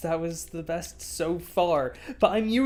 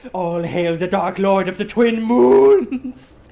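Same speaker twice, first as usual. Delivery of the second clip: grand announcer; 8 dB louder than usual. Pretend. Mock proclamation.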